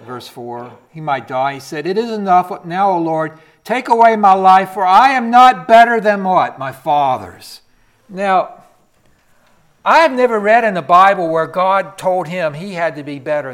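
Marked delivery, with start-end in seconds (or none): 1.9-13.5 high, loud preacher's questions; preaching. Acted. Preacher asking the congregation about Elijah's faith, loud. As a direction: hammer each question home.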